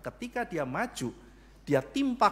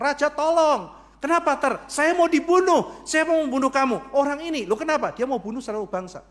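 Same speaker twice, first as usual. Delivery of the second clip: much higher and louder, begging; desperate plea; 8 semitones higher, 7 dB louder than usual. Acted. Esther begging the king to save her. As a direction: cry out for help.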